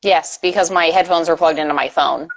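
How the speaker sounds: muffled underwater voice. Real, not acted. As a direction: sound like you're underwater. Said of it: "now you sound like you're underwater again".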